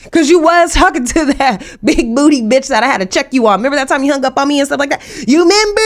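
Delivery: put-on fast, accusing girlfriend voice with a laugh; mock jealous girlfriend, quick and teasing; girlfriend confronting him. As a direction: needle him about the big booty girl. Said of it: "she gonna watch this ... and be like".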